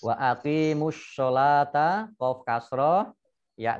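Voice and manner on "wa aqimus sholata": "aqimus sholata" joined, long vowels held; measured teaching recitation of "Wa aqimus sholata"; Quranic recitation demo. Shown as a demonstration. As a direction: recite "Wa aqimus sholata", running straight into the sod. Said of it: "dibaca langsung masuk ke huruf short".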